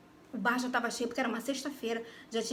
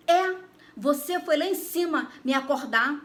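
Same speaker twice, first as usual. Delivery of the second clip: gruff father; 3 semitones higher, 5 dB louder, slower than usual. Retold or imitated. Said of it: "E falando grosso".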